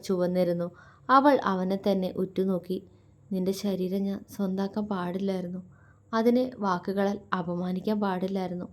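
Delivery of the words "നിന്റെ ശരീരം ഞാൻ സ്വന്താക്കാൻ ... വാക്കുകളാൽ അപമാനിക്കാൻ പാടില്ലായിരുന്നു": softer, breaking remorse; faltering voice. Acted. Shiva confessing his guilt to Mitra, softly faltering. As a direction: choke a little on the regret. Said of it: "ഇടറുന്ന സ്വരത്തോടെ അവൻ പറഞ്ഞതും".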